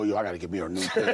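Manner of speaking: low, quick aside through laughter; imitated eager fan. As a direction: toss off the fan's reaction fast and low. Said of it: "It made you go".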